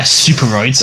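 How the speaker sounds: booming metallic robot. Pretend. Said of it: "Steroids in a robot voice".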